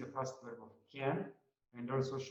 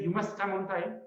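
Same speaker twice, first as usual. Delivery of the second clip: louder, higher stern order; a bit angry; 6 semitones higher, 7 dB louder than usual. Shown as a demonstration. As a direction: scold the late secretary firmly. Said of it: "okay, I'm a bit angry".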